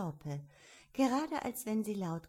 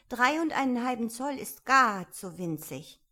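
loud, higher Alice voice; mildly indignant girlish complaint; complaining Alice; 5 semitones higher, 9 dB louder than usual. A narrator's reading. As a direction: protest as young Alice. Alice complains about her size.

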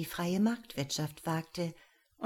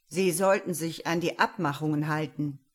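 firm and louder, a warning; 6 dB louder than usual. Acted. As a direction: put him in his place. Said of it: "klang die sehr bestimmte Antwort".

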